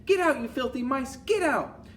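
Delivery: high, frantic order; hammed-up high-pitched shout; teachers' shout. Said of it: "They stand upon the desks and shout".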